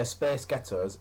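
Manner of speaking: "Space Ghettos" with a light American accent; mild American "Space Ghettos". Shown as a demonstration. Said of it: "in an American accent".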